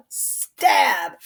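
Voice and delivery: sudden yelled stage cue; shouted stab. Acted. Knights fighting, the blow shouted out. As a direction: cry out as the blade lands. Sword duel acted out.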